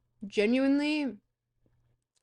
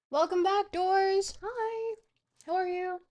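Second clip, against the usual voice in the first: bright greeting; 10 semitones higher than usual. Real, not acted. Greeting a viewer.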